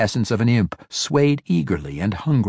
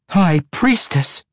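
louder, higher, slow High Priestess in protest; yelled protest; 9 semitones higher, 5 dB louder, slower than usual. A narrator's reading. Matron mother protests the demotion, slow loud yell. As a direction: shout High Priestess back as an outrage. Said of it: "Quenthel yelled in protest".

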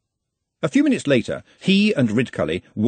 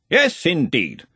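cheerful; 6 semitones higher, slower than usual. A narrator's reading. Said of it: "said Ridcully cheerfully".

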